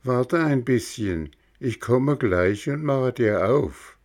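lightly voiced high snail calling down. Schnecke verspricht zu öffnen. (leicht höhere Schneckenstimme)

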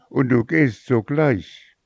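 the mother commands her daughter to go now; stern command. Acted. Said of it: "schrie die Mutter".

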